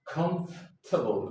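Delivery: comfortable said as "cumf-tuh-bl", three syllables; comfortable with the middle squeezed out, "KUMF-tuh-bul"; correct British way. Shown as a demonstration. Teacher models the correct comfortable. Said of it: "Repeat after me".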